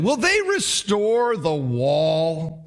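very slow, sneering question; mock their ambition with scorn; drawn-out mocking taunt; derisive question. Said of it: "He derides their ambition".

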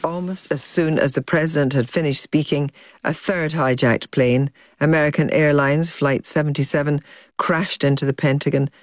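measured, scripted presenter read; documentary link read to listeners; news documentary narration. Acted. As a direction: narrate the events as a serious news account.

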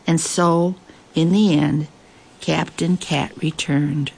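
measured, expressive picture-book reading; story narration. A narrator's reading. Host reads a cat story to listeners, story narration. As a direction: read it aloud with lingering pauses between phrases.

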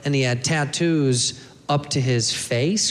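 "face" lifted into a rising question; statement turning into a doubtful question on "face"; questioning rise. Real, not acted. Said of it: "question mark?".

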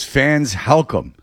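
light mock British voice, Helcom for welcome; imitating a bad British accent. Mimicking the announcer's bad British accent for the hosts. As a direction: poke fun at a fake British accent. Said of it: "Do a British accent".

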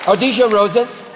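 airy, affected supermodel deer; dainty, clueless deer. Acted. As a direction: pose it like a vain model. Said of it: "like supermodels with hooves".

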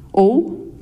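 ordinary delivery

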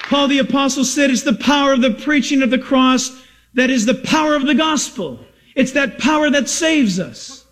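impassioned pulpit declaration; fervent preaching. Real, not acted. Preacher telling the congregation of the power of the gospel, fervent preaching. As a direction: preach it firmly, pitch held up.

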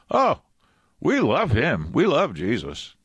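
high squeaky cartoon alien voice. Preacher voices the cartoon alien answering interviewers, high cheerful voice. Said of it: "And they go like".

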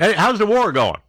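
mock heckle at the president; mock reporter heckle. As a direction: needle him like a heckling reporter. Mocking heckle at Trump.

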